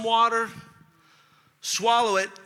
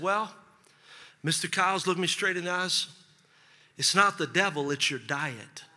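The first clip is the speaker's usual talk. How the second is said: low, soft, serious verdict; doctor telling his patient the bad news; grave doctor; 3 semitones lower, 6 dB quieter than usual.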